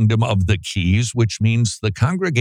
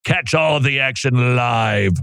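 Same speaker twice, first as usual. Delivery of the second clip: sports announcer hype. Acted. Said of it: "it says announcer over the top sports hype tone".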